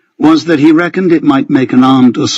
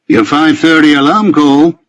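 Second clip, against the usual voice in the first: smile in the voice; 4 semitones higher than usual. A narrator's reading. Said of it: "with a smile in his voice".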